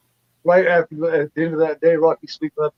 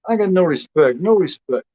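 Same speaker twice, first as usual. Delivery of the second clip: Rodney Dangerfield; 2 semitones higher than usual. Retold or imitated. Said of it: "I'm the Rodney Dangerfield of YouTube".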